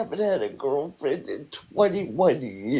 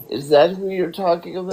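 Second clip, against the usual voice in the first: usual speaking voice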